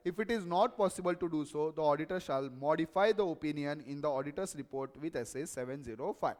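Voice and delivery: slow, measured reading of a standard; formal reading aloud. Real, not acted. Teacher reading an auditing standard to students, slow and formal. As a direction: read the clause out deliberately.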